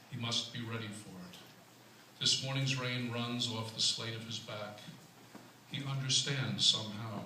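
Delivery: measured recital, a pause after each line; poetry reading. Acted. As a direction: give every line of the poem its own space. Reads own poem aloud.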